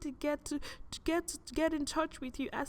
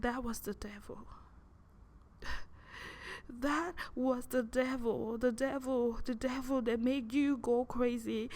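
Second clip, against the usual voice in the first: caring soft voice; 3 semitones lower than usual. Retold or imitated. The soft voice gently explaining who misled her. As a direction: soothe them like a comforting guardian. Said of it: "the caring soft voice".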